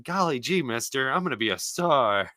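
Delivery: put-on wholesome 1950s kid. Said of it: "I'm just like".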